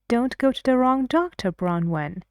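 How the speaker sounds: "doctor" rising, a bit quick; rising tune. Shown as a demonstration. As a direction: lift the end as a suggestion.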